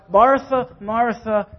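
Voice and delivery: "Martha, Martha" said gently, second one easing down; caring call. Shown as a demonstration. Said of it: "He cares about her".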